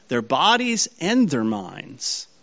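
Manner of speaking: slow the phrase and punch "and"; deliberate emphasis on "and", drawn out; stress on AND. Shown as a demonstration. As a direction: point up "and" between "bodies" and "minds". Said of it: "But notice what it says".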